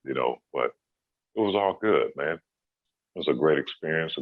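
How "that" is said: higher, put-on voice of a mother defending her son; protective mom. Speaker's mom protesting to Kobe, high mothering voice. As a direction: play a mom fussing over her baby. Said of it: "She says".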